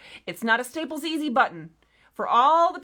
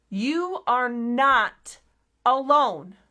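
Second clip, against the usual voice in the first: "You are not" stretched slow, "alone" lands louder; slow emphatic repeat; 3 dB louder, much slower than usual. Shown as a demonstration. Reassuring viewers once more, slow and emphatic. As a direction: hammer the phrase home slowly. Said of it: "need to hear it at least two more times".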